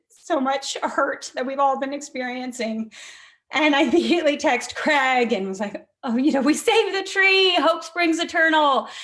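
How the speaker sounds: high, loud elated voice with laughter; bursting with happy relief; joyful. Real, not acted. Texting joyful victory to Craig.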